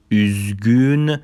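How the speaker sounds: "اوزگون" with fronted ü, as üzgün; Turkish ü demo. Shown as a demonstration.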